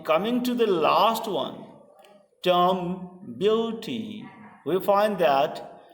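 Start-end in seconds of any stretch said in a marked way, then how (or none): 2.4-4.2 "term beauty" drawn out slowly in separate syllables; slow scansion of "term beauty". Shown as a demonstration. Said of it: "three syllabi".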